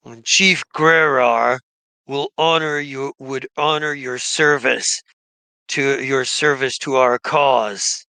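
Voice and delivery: formal tribal thanks, only lightly put on; lightly voiced gnoll shaman. Gnoll shaman thanks the party for killing undead, lightly voiced and solemn.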